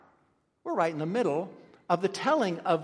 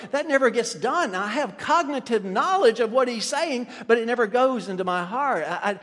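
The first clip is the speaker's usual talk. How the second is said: raised, emphatic pulpit delivery; impassioned preaching; 5 semitones higher, 5 dB louder than usual. Real, not acted. Preacher lamenting truth that never reaches the heart, impassioned. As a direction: press the point home like a preacher.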